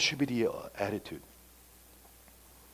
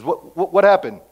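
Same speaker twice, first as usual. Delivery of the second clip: puzzled brother; 6 semitones higher, 9 dB louder than usual. Acted. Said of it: "and says".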